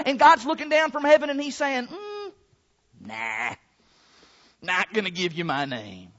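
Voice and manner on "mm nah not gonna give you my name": low, soft, reluctant no; offhand refusal. Acted. God looking down from heaven at His people, offhand refusal. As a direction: decline quietly, dropping low after a pause.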